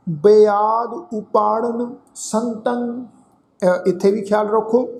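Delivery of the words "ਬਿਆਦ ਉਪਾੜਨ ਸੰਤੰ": slow, drawn-out chanting of the verse; slow scripture recitation. Shown as a demonstration. Teacher recites the verse for the congregation, slow chant. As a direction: intone each word slowly and reverently.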